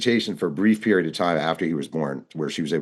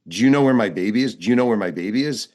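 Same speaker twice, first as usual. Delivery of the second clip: retold scream; 3 semitones higher than usual. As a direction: imitate a frantic woman without really screaming. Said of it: "The woman starts screaming".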